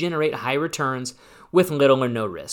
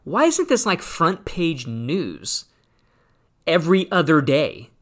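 high, incredulous whoa, slowed-down disbelief; retold astonishment; 3 semitones higher, slower than usual. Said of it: "I came upon this and I went".

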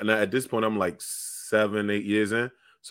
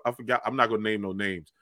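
normal talking voice

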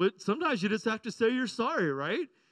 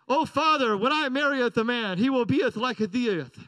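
mock old-English daughter. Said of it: "I know five-year-olds don't speak like that".

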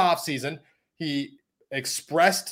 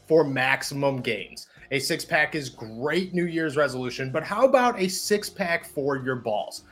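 upbeat sponsor ad read. Acted. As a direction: sell it like a podcast ad. Host reads sponsor ad.

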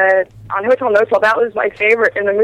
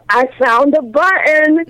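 put-on slow, raised-pitch drunk voice; imitated drunk; 5 semitones higher, slower than usual. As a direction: play drunk and stretch out the words. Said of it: "he's supposed to be drunk".

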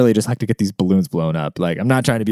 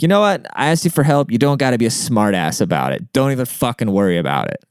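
retold irritated rebuke, tumbling down in pitch; fed-up telling-off. Customer snaps back at a condescending clerk, fed up. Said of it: "I literally said it just like that".

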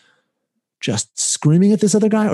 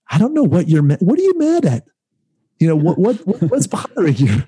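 raised, higher pleading question; quoted self; 6 semitones higher than usual. Retold or imitated. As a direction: retell asking what's wrong, voice pitched up. Retold confrontation quote, mocking calm.

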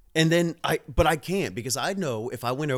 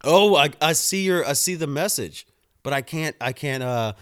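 talking with a dip in; words around a lip of tobacco; lip full of dip. Real, not acted. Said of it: "I've got a dip in".

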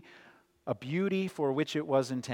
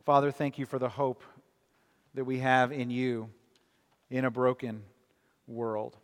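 prayer. Acted. Leads a closing prayer.

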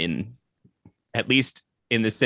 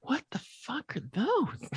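scared orc voice; 9 dB quieter, slower than usual. Acted. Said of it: "the orcs are like".

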